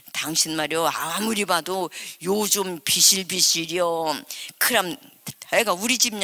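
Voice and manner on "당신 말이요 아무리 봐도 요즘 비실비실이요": imitating her husband. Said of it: "자꾸 그러시거든요".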